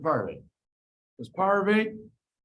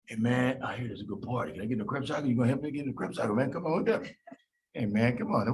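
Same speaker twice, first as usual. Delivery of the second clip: pleading partygoer; 5 semitones lower, 3 dB quieter than usual. Acted. Pyruvate pleads at club door.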